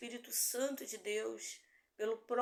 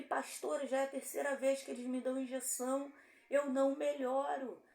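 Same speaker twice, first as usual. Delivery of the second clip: higher-pitched imitation of a man pleading; retold pained complaint; 4 semitones higher than usual. Injured homeless man tells his pastor injections failed, mock-pleading complaint. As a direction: lightly voice a hurting man's insistent complaint. Homem com dor suplica à pastora.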